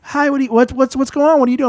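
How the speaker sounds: high-pitched imitation of girlfriend; imitating girlfriend. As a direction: lift the voice high to play her.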